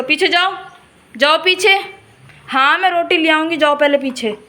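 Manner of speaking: loud, firm shooing calls; calling to a cow. Real, not acted. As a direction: push the cow back with loud commands. (गाय को ज़ोर से पीछे हटाना)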